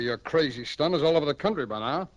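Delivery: ordinary talk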